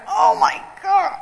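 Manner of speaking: slow, drawn-out disbelief; retold stunned reaction. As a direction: gasp it out slowly, overwhelmed. Retold shock at his kindness.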